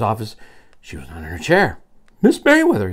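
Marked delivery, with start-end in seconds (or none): 2.2-2.9 high, raised-voice questioning call; asking. Acted. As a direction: ask for her as if searching. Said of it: "he asked".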